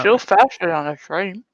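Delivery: talking through chocolate; words round a bite of chocolate; mouth full. Real, not acted. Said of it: "Sorry, I have chocolate in my mouth".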